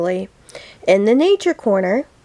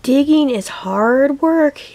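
sleepy puppy, slow and yawning; 4 semitones higher than usual. Acted. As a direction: stretch the words out in a yawn. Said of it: "yawned Muddy Paws".

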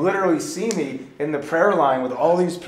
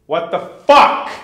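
shocked outburst; 4 semitones higher, 12 dB louder, slower than usual. Retold or imitated. Retold outburst in a fight.

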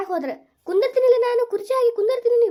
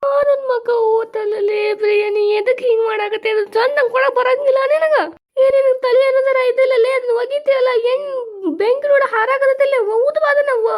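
angry scolding; 3 semitones higher, 5 dB louder than usual. Acted. Older sister scolds over fire.

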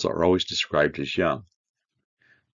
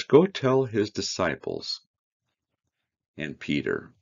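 heartfelt; 4 semitones higher than usual. Acted. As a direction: linger on it, moved. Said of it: "this verse warms my heart".

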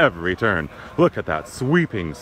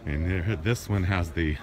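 softer, out of breath from gushing; 3 semitones lower, 3 dB quieter than usual. Real, not acted. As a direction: talk while short of breath. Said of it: "gosh, I'm out of breath".

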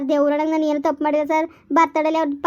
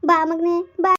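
calling out; slower than usual. Acted. Mother calling her son Bimalu back as he leaves, raised voice. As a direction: call after the boy as he walks off.

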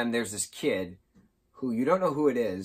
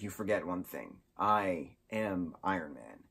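Tony heroic; 3 semitones lower, 4 dB quieter than usual. Retold or imitated. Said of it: "Tony's like".

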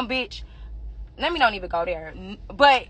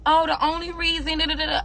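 mocking quote; 6 semitones higher than usual. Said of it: "And if y'all say".

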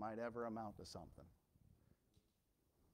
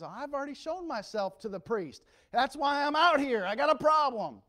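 desperate plea; 13 semitones higher, 15 dB louder than usual. Retold or imitated. Leper's desperate retold plea.

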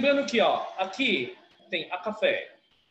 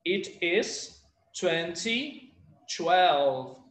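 slow teaching demo; much slower than usual. Shown as a demonstration. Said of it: "we say the tens".

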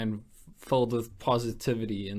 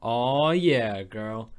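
catchphrase; much slower than usual. Pretend. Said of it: "That was for Chelsea".

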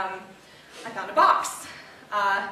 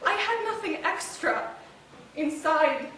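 higher-pitched, hurt confession; wounded outpouring; 5 semitones higher than usual. Acted. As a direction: pour out the hurt of a betrayed wife. Confesses hurt over husband's secret life.

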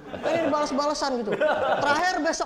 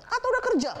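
high-pitched probing question; nosy aunt, voice shooting up; prying parent; 9 semitones higher, faster than usual. Acted. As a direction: jump up high on the hopeful question. Girlfriend's parent grills the boyfriend.

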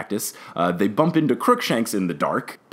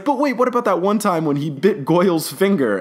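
imitated protest; 8 semitones higher than usual. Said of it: "Ron is like".

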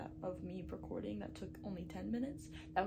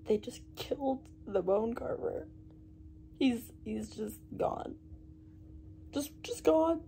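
stunned shock; 4 dB louder than usual. Real, not acted. Shocked at a character's death.

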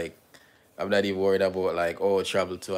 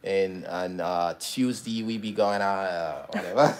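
fading Australian impression; Australian accent, faltering toward a laugh; Aussie accent; slower than usual. Partner gives up on the demo, Aussie accent. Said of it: "Do your countryman accent".

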